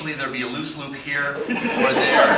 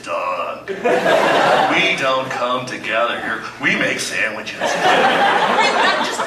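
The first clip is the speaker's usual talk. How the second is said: mock sermon in the pastor's voice, building from hushed to big; Pastor Doug impression; 3 semitones higher, 4 dB louder than usual. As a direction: play the beloved pastor mid-sermon, milking every pregnant pause. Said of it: "this is my impression of you".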